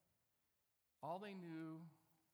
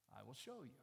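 calm, softer, lower reply; unruffled God; 4 semitones lower, 3 dB quieter than usual. Acted. God answering Abram's question, calm and low.

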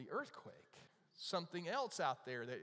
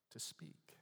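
unvoiced, hushed whisper; soft whisper to draw listeners in; 2 semitones higher, 8 dB quieter than usual. Shown as a demonstration. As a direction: let the words drop into a whisper. Illustrating the whisper of God.

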